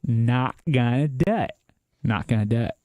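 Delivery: lightly put-on presidential impression, pitch swinging up then settling; a hint of a comic president's catchphrase delivery; George Bush. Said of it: "Oh, George Bush".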